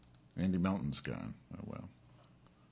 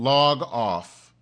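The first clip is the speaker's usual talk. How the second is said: angry order; 4 semitones higher, 7 dB louder than usual. Real, not acted. Yelling at troll Brian.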